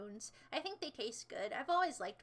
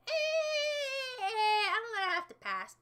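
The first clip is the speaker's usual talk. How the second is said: mock reluctant refusal; 9 semitones higher, 6 dB louder, much slower than usual. Turning down a babushka invite.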